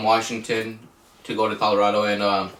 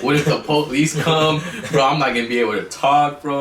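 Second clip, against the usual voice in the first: higher, mildly panicked retelling; retold tweaking; 3 semitones higher than usual. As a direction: act out a worried freak-out, pitch lifted. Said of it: "just started tweaking".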